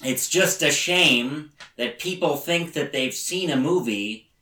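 a light mock David Lynch, slow; imitating David Lynch, only lightly voiced. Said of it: "That was the line he used".

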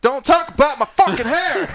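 high yelled mock outrage; loud matey lad banter. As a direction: bellow it like a fake fight. Mock fight over baldness.

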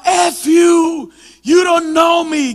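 loud, high, drawn-out reenacted shout; yelling curses. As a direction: shout angrily back at a preacher. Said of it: "Yo le gritaba". (gritando maldiciones, recreado)

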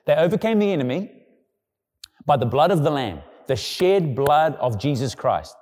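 scripture proclaimed with rising force; preacher quoting Revelation; preaching scripture. Acted. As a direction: proclaim the verse, slowing on the last line.

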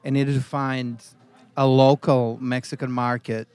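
serious, hushed story reading; dramatic story reading. Acted. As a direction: read it like a solemn tale of injustice. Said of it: "The way you read that like a story".

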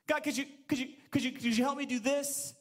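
mock timid asker; timid small prayer. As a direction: beg God meekly, stammering. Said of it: "When did you say".

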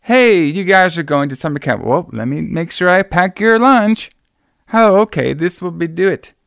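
high, sing-song forties-movie mother; mocking the aunt's strange chirpy acting; over-the-top mom. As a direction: ham it up like an old-fashioned movie mom. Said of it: "her acting is basically like".

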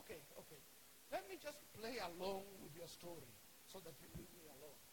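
low, soft humouring; subdued reluctant agreement; grudging concession. Acted. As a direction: give in quietly to end it. Acts Thomas grudgingly humouring them.

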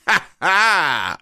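high, loud gloating laugh-shout; triumphant ha ha. Pretend. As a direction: crow blurts a loud cackling ha ha. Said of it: "and in my voice you hear".

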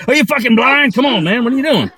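an Australian yelling politely at a driver; polite Aussie outrage. Retold or imitated. Aussie Dave telling off the truck driver, Australian accent, politely loud. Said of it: "the most polite way to be like".

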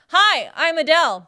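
lightly voiced impression of a singer; barely changed singer's voice; deliberately lame singer impression; impression of a singer. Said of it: "Here's my impression".

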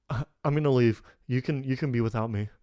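low, soft retold goodbye; subdued parting. Friend retelling Alec's exit, low and subdued. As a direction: imitate him quietly, resignedly announcing a departure. Acting out Alec announcing he's leaving.

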